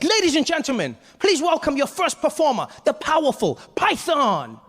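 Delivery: high, booming showman intro; excited announcer. Retold or imitated. Host introducing the first act, high excited announcer voice. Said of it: "Deng Basan's really excited".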